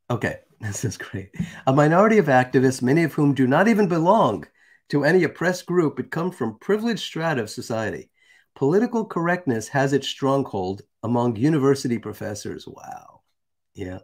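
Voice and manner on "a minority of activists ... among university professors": emphatic read-out of a written text; deliberate oratorical reading; reading aloud. Acted. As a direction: read it out with lifted, stressed key words. Reads a quoted text aloud.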